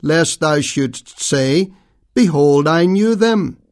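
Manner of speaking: measured, solemn reading of the King James text; scripture reading. Acted. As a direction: read it like a lectern Bible reading, weighty and unhurried. Reads the scripture passage aloud.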